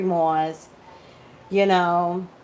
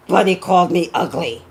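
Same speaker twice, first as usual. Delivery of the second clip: whiny quote; 8 dB louder than usual. Retold or imitated. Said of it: "and then she goes".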